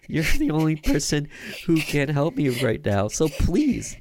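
high, loud, desperate begging; desperate pleading. Acted. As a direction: beg for help, terrified. Pleading victim on the payphone.

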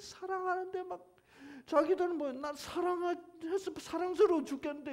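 high-pitched, aggrieved pleading; pleading love. Acted. Preacher voices God's unanswered love, high pleading.

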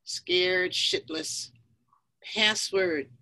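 measured poem reading with pauses; poetry recital. Acted. Poet reading Gun to the audience, measured recital. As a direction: recite it in short, deliberate phrases.

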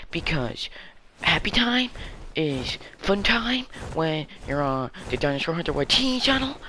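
bouncy phrases that jump up high at the ends; jokey, choppy singsong; mock singsong explanation. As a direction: play it up, swinging the pitch upward on key words.

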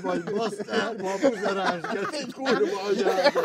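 cursing through laughter; laughing at the workmate mid-insult; laughing while cursing. Real, not acted. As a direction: let the laugh break through the swearing.

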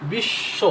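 "বিশ্ব" as bish-sho, silent b; doubled consonant. Shown as a demonstration. Teacher showing learners the doubled sound, "বিশ্ব" as bish-sho. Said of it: "বর্ণটা দুই বের উচ্চারণ হচ্ছে".

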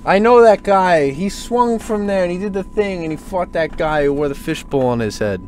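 put-on a light Boston accent, a fan pointing at the places from the film; lightly put-on Boston accent, excited. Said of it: "like, a Boston accent".

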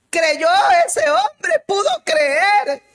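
slow tearful preacher's cry; fervent shout. Real, not acted. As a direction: proclaim it slowly, ringing out with tears. Preacher cries out at climax.

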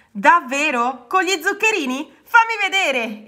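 high, eager little voice; thrilled, demanding to see; excited exclamation. A narrator's reading. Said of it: "esclamò Rana".

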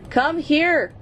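high yell of come here; frustrated shout. Real, not acted. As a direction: call the fish in annoyance. Chasing fish for food.

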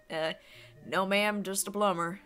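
put-on light Southern accent; lightly put-on Southern accent; Mario. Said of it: "I gave Mario a southern accent".

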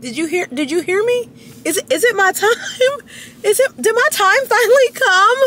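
high, near-crying excitement; hammed-up overwhelmed gush; mock tearful joy. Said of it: "I'm just like".

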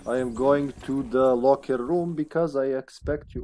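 careful, put-on Serbian accent. Player heading to the locker room, Serbian accent. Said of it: "I'm doing the Serbian accent now".

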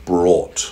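BROUGHT set apart, R sounded; correcting to brought. Shown as a demonstration. Reader repeating the correction, BROUGHT with clear R. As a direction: land separately on BROUGHT with its R. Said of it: "Brought, not bought".

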